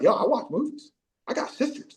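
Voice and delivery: high-pitched imitated self-justification; mock defensive. Briggs defending his movie pick to teammates, high mock protest. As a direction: defend yourself, voice jumping up high.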